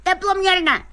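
insistent, alarmed pleading; panicked refusal. Acted. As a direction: refuse the thermometer in dread. Patient protests against the thermometer.

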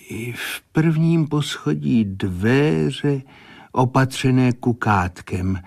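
a hint of a medium reporting what she sees; measured, trance-like clairvoyant reading; entranced seer. Seer's next vision.

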